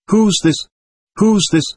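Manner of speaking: indignant, high-pitched demand; indignant rage. A narrator's reading. Doctor demanding who the boy is, high, restrained rage. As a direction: pitch it high, in mild outrage. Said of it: "flew into a terrible rage".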